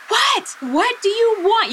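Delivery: high, sharp, impatient What; short with him. Retold or imitated. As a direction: snap back at an intruder. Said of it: "I'm still kind of being short with him".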